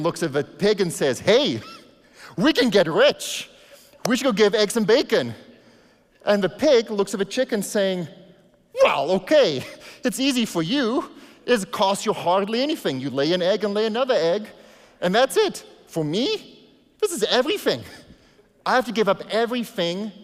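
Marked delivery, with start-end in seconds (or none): 1.2-5.3 a chicken spotting a way to get rich; excited chicken. Acted. Chicken urging the pig in the pastor's fable, excited and loud. 8.8-20.1 much higher, louder pig voice, pleading; a pig insisting it has to give everything; protesting pig. Acted. Pig answering the chicken in the pastor's fable, higher and pleading.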